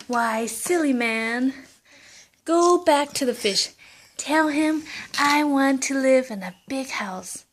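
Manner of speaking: high, loud mean wife, half-whispered at the end; scolding wife. Acted. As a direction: nag the silly old man, then hiss the demand.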